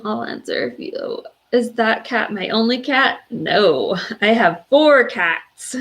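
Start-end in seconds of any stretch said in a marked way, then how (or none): 3.3-5.8 tearful. Real, not acted. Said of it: "I am a very emotional person".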